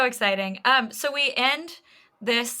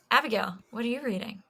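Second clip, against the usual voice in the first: teacher voice; 4 dB quieter, faster than usual. Shown as a demonstration. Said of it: "I just did my teacher voice".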